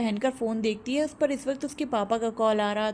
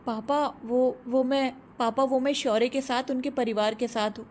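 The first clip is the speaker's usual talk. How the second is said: stammering. Acted. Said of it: "थोड़ा हकलाते हुए कहती है".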